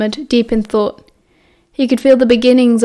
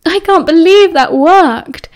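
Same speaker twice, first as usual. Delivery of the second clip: laughing disbelief; 6 semitones higher, 5 dB louder, slower than usual. A narrator's reading. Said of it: "James laughed hysterically".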